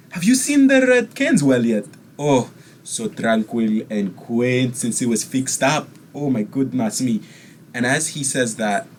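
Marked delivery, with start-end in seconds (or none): 0.1-7.2 preen and gush over your own home; theatrical rich eccentric; eccentric nobleman. Acted.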